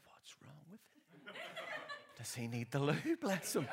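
giggling through the words; amused aside through laughter; laughing. Retold or imitated. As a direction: laugh while you say it. Retold thought about dad, laughing.

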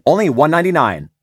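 ad line with a sinus click; clicky sinus read. Shown as a demonstration. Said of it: "I'll be like".

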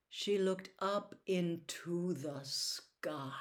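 very slow, whispered narration; hushed suspense. A narrator's reading. Narrator as Winky looks up, hushed suspense. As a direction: draw it out in a whisper. Narrator builds dread, slowing right down.

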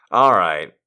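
usual speaking voice

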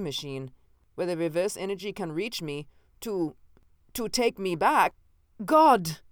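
fear climbing into despair; from a broken murmur to an anguished outcry; rising panic. Acted. Realizes he is trapped in time.

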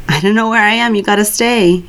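drowsy slurring, words running together; slurred speech. Acted. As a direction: slur it like half-asleep. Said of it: "His voice is slurred".

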